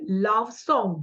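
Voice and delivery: "love song" slowly, both words stressed; both syllables stressed. Shown as a demonstration. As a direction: give "love" and "song" equal, drawn-out weight. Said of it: "Both syllables are stressed".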